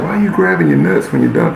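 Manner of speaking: high mock outraged voice; mocking kids. Classmates mocking his dunk, high jeering voice. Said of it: "They're like".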